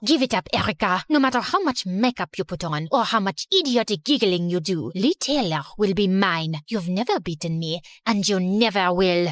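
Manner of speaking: menacing rival. Acted. Rival cornering Erica in the cafeteria, low and threatening. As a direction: pin her to the wall with your words. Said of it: "marched up to me angrily".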